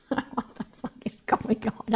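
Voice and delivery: whispered through giggles; giggling disbelief. Acted. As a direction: laugh it out half under your breath. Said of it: "Lily had to giggle again".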